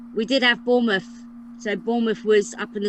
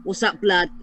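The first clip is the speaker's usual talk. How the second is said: mock London street slang; 2 semitones lower than usual. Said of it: "They talk like that".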